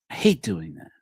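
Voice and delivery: whispered under the breath; whispered aside. Real, not acted.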